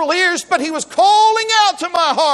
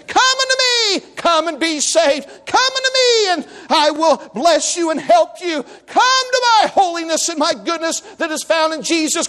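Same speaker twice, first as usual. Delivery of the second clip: fervent preacher's call in God's words. Acted. God calling sinners to come, impassioned. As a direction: draw out each "come" like a summons. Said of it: "He's calling you out and saying".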